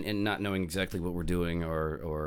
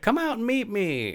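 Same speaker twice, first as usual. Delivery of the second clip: sexy DJ voice. Retold or imitated. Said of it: "the sexy voiced D J".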